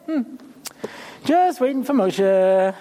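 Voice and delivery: slow, unbothered waiting in a mock role; drawn-out idle waiting. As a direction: stretch JUST out slowly. Playing oblivious Yehoshua waiting.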